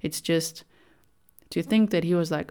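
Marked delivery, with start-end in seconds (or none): none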